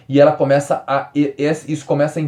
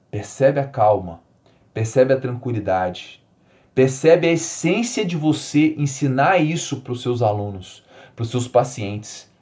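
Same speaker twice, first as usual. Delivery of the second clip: soothing; slower than usual. Shown as a demonstration. Invites listeners to feel the calm.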